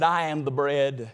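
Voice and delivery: low, soft, slow divine answer; calm, slow answer from the Lord; voice of God. Acted.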